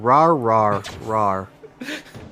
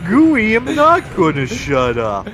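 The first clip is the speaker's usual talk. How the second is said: louder defiant comeback; defiant retort; 5 semitones higher, 5 dB louder than usual. Acted. Gooey, told to shut up, fires back loudly, defiant. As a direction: throw the words back at him.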